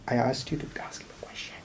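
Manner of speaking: whispered aside. Real, not acted. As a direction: lean in and whisper it. Aside to co-host.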